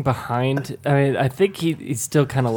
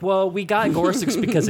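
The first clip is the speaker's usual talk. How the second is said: imitating Diana Reed; 6 semitones higher than usual. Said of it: "do the Diana Reed voice".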